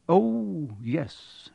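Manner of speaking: mildly dismayed assent; sinking heart. A narrator's reading. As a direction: agree weakly as dread sets in. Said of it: "his heart sinking horribly".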